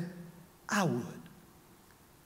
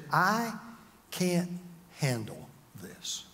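softer, slow, defeated admission; quiet broken whisper; 4 dB quieter, much slower than usual. Retold or imitated. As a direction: let the voice sink as you give up. Quoting despair in prayer.

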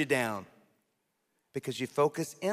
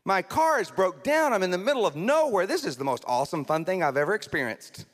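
fake cheerful prayer; 4 semitones higher than usual. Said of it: "suppress their feelings".

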